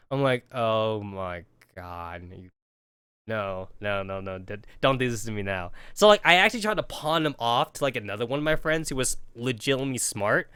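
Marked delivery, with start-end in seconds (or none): 0.5-5.7 despairing groan. Retold or imitated. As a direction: drag it out, begging not this. Dread groan.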